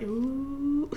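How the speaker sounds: mock low ooh from the class; a teasing ooh, like the whole room. Kids in class reacting to a threat with an ooh. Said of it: "in that really low voice that they like".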